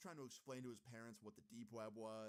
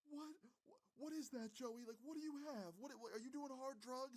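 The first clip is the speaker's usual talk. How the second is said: very high, loud, hammed-up tearful wail; squeaky mock-hysterical crying voice; imitated crying mom; 4 dB louder than usual. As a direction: mimic a mother freaking out through tears. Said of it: "Joey's mom starts crying immediately".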